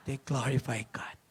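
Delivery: soft, voiceless whisper; whispered verse. Acted. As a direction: hush the last words.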